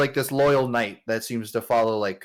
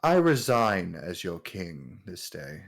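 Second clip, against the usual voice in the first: low, measured royal declaration; understated king addressing his city; lightly voiced king; 5 semitones lower, 3 dB quieter than usual. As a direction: announce it gravely, low. Game master voices the king's announcement.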